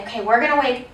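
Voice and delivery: clear, measured teacher prompting; modeling teacher voice. Shown as a demonstration. Teacher models for a kindergartner, clearly. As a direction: model the routine for a young student. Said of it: "So I'll say".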